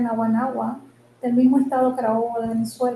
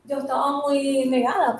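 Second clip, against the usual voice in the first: speaking up; 2 semitones higher, 4 dB louder than usual. Real, not acted. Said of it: "Habla más fuerte".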